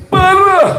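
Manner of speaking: "Parah" blurted high, falling away; emphatic "Parah". Shown as a demonstration. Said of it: "ngomongnya agak harus begitu".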